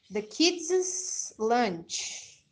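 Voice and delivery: put-on very slow demo of kids' with no extra syllable; kids' lunch drawn out for learners; kids' said plainly. Shown as a demonstration. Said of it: "Muda um pouquinho a pronúncia".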